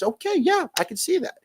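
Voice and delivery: high sarcastic "sure" voice; mock-agreeable sarcasm at the bartender. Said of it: "I'm like".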